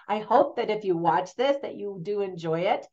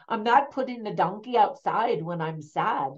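half-hearted, lightly put-on Irish accent; terrible Irish accent. Man refusing his sister over the donkey, terrible Irish accent. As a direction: attempt Irish without fully trying. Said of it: "I'm doing a terrible Irish accent".

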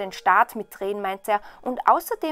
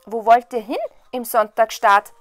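louder, lively questioning character voice; curious youngest brother; 9 dB louder than usual. A narrator's reading. Youngest brother asks his brothers where they are going, curious. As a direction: call the question out to them.

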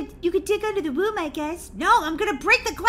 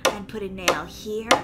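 put-on menacing babysitter; 7 semitones lower than usual. Plays menacing babysitter Megan.

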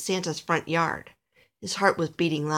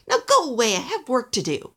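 raised, higher grumpy dismissal; grumpy elf; 5 semitones higher, 3 dB louder than usual. A narrator's reading. Busy elf shooing Alistair from his work, grumpy. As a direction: send the visitor off grumpily. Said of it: "said a grumpy elf".

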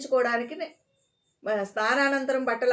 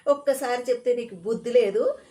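louder, contemptuous rebuke; angry scolding; 2 semitones higher, 4 dB louder than usual. Acted. Ticket clerk rebuking Parvateesam for asking again, louder with contempt. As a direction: scold him for having no sense. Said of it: "అని ఆరంభించాడు".

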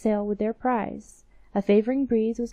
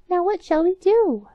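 high, anxious little mouse voice; whispering little mice; 9 semitones higher, 7 dB louder than usual. Acted. Two little mice ask each other in a high anxious voice. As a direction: fret like a tiny mouse in the dark. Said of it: "said the two little animals".

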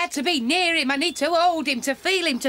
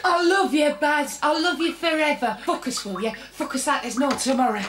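loud; 3 dB louder than usual. Acted. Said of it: "Keep your fucking voice down".

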